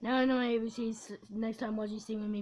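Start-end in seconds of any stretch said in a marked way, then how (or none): 0.0-1.1 talking while burping. Real, not acted. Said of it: "book the alphabet".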